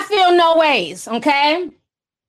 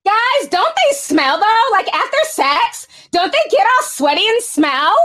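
put-on Valley Girl voice; 6 semitones higher than usual. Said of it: "I got my Valley Girl voice on".

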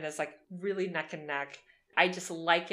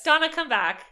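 calling out; 8 semitones higher, 9 dB louder than usual. Real, not acted. Calling out to a listener.

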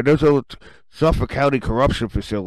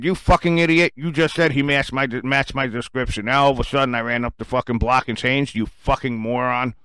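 angry quote that cools toward the end; retold angry outburst. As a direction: tell the cop off again. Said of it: "So I said".

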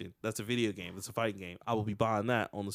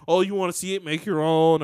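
mocking troll; 4 semitones higher, 8 dB louder than usual. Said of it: "They were coming out like".

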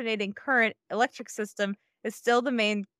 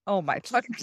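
bursting out laughing; 2 semitones higher than usual. Real, not acted. Reading the Tesla letter aloud, breaking into laughter. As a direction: lose it mid-sentence.

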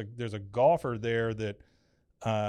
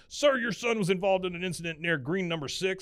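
higher-pitched official reporting an incident; officious guard; 5 semitones higher than usual. Retold or imitated. Security guard reporting to Hank at the door, mock-officious. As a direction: report it like a self-important guard.

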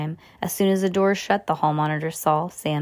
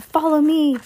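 high, loud commanding yell; 9 semitones higher, 5 dB louder than usual. A narrator's reading. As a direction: shout to lead them on. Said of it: "He yelled".

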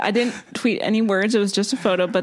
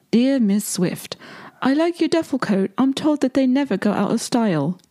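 put-on Cockney accent; 4 semitones higher than usual. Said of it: "Cockney thing".

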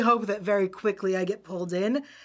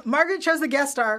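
fighting game announcer; 4 semitones higher, 3 dB louder than usual. Acted. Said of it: "say all the lines in the announcer voice".

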